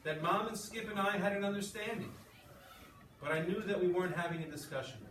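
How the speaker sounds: expressive read-aloud to a class; story reading. A narrator's reading. Teacher reading a novel aloud to the class, expressive. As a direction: read the story with feeling for the students.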